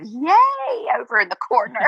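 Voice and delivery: a quick, delighted falsetto whoop; mock cheer. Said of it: "Mom was just, you know, kind of".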